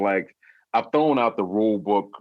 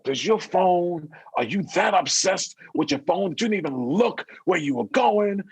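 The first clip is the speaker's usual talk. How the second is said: mock scolding; 7 semitones higher than usual. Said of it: "I was so pissed".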